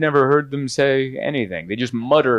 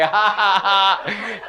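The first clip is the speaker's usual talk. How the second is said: questioning laugh; 7 semitones higher, much slower than usual. Retold or imitated. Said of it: "I love the laughs here".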